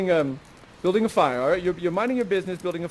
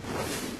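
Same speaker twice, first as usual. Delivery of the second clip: gasp; 10 dB quieter than usual. Acted. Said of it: "Ferdinand finally gets a look".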